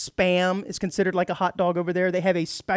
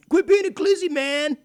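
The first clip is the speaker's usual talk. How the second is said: future slang; 9 semitones higher than usual. Pretend. Imagined future slang use.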